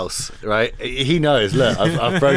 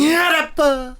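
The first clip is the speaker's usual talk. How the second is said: high yelped soul shout; imitating a soul singer; 14 semitones higher, slower than usual. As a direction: belt it like a funk hook.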